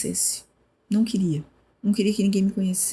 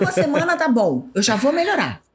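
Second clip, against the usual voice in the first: higher with a laugh; laughing insistence; 8 semitones higher than usual. Retold or imitated. To cousin about leave, laughing and higher.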